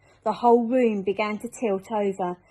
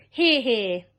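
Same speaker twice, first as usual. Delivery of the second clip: a louder, different voice cheering; cheering shout; 5 dB louder than usual. Acted. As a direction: another creature cheers along. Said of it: "they all shouted".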